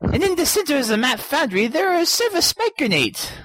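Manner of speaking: put-on hillbilly accent. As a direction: read it as a hillbilly. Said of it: "I'll do the hillbilly accent".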